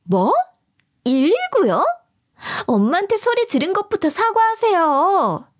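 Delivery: lightly voiced snippy sister-in-law; accusing sister-in-law. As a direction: pick at her, calling it faking. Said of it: "따지는 거예요".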